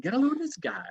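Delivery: unvoiced, hushed whisper; a sly whispered remark; whispered aside. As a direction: whisper it behind your hand. Retelling Gorshin's aside.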